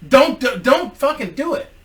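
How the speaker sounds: high, loud, urgent don't; nearly shouting the plea; forceful plea. Real, not acted. Begging the man on the ledge, loud and urgent. Pleading with would-be jumper.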